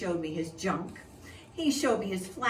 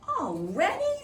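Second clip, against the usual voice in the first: whiny protest; 12 semitones higher, 6 dB louder than usual. Acted. Reggie protesting bedtime.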